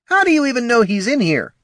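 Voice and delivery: high, loud sneering voice; snooty guard. Acted. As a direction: brush them off rudely. Guard speaks.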